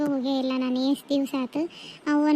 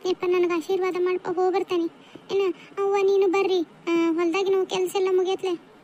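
lightly voiced daughter, a bit higher; slightly raised voice of a daughter saying goodbye; departing daughter; 3 semitones higher than usual. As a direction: lightly play a daughter asking an elder's blessing.

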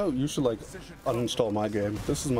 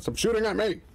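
high-pitched exasperated cry; exasperated outcry; 10 semitones higher than usual. Real, not acted. Player under fire in the game, exasperated high outcry. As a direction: cry out in a much higher voice.

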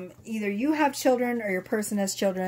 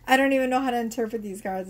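laughing; 4 semitones higher, faster than usual. Real, not acted. Laughing at confusing cards.

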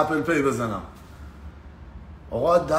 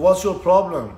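louder confrontational quote; louder challenge; 6 dB louder, much slower than usual. Retold or imitated. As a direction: push the man's question harder. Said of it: "گفت". (نقل قول طلبکارانه و بلندتر)

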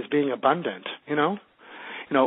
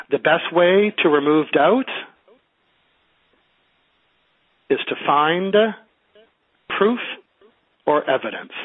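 slow dictation. Shown as a demonstration. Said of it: "And the next sentence".

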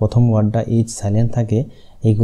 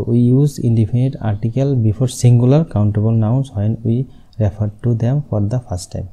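slow, word-by-word rule reading; slow dictation; much slower than usual. Shown as a demonstration. Teacher dictating the silent H rule slowly. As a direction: dictate it so students can write. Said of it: "ঠিক আছে?".

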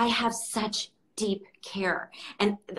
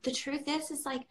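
higher, softened, close to tears; real tearful voice; 4 semitones higher than usual. Real, not acted. Host moved by a quote about life being hard, tearful. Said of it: "I'm crying right now".

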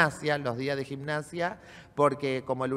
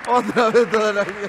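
laughing exclaim; 5 semitones higher, 9 dB louder than usual. Real, not acted. Laughing after telling mother's comeback.

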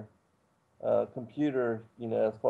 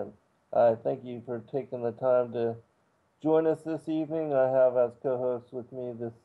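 muted, like through a sock; muffled voice. Real, not acted. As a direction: voice muffled by a bad mic. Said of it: "You sound a little muted".

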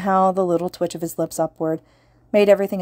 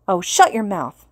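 yelled; 2 semitones higher, 3 dB louder than usual. Acted. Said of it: "Kirishima yelled".

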